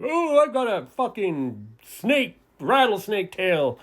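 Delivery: mocking bragging kid. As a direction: mimic the rival showing off, drawn out. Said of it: "he's bragging".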